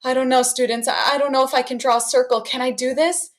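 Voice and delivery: hammed-up worry, fast and unsure; mock nervous teacher at the board; pretend nervous. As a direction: play-act doubt for the kids. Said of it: "I pretend to be a little nervous".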